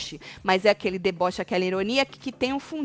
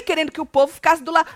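ordinary talk

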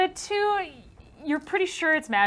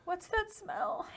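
disgusted by smell; 9 semitones higher, 11 dB quieter, much slower than usual. Acted. GM voices the pixie.

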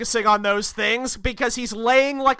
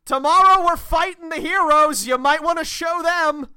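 higher-pitched comic comeback; acted villain retort; 6 semitones higher than usual. Co-host acts a villain's retort.

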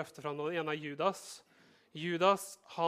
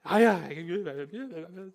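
evasive shrug; 2 semitones higher, 4 dB louder than usual. Acted. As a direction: brush it off casually. Listener evades, playing down faith. (unnvikende, likegyldig tone)

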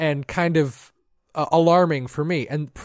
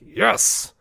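whispered yes; 7 semitones higher than usual. Retold or imitated. Quiet victory after wife sleeps.

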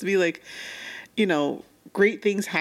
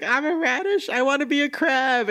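mock sad; 10 semitones higher than usual. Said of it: "she just gets so sad".

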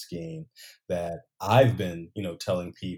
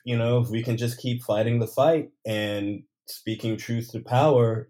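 fervent; 4 semitones higher, 9 dB louder than usual. Real, not acted. Rousing praise of Manning.

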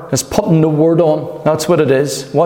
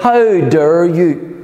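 slow, indignant "How dare you?"; a defiant inner voice pushing back; defiant retort; much slower than usual. Retold or imitated. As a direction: draw out "How dare you?" slowly in your own voice. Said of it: "it's like".

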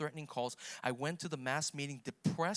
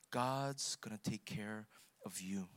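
tender; 5 semitones lower, slower than usual. Acted. Preacher repeating the old woman's comfort, slow and tender. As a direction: lay the words down gently like a promise.

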